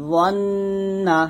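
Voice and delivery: "দন্না" stretched very slowly with a thick d; slow heavy model. Shown as a demonstration. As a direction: drag "দন্না" out heavily. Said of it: "তো যেমন". ("দন্না" ধীরে মোটা করে)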